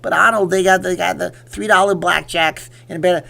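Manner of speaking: high, loud pleading tough-guy impression; Sylvester Stallone. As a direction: coax in a slurred action-star voice. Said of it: "so, how did I do it?".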